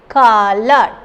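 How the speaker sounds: "Color" in two clear units; two separate syllables. Shown as a demonstration. Teacher showing students the two units, separated syllables. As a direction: say "Color" as two distinct beats. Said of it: "the two unit is coming".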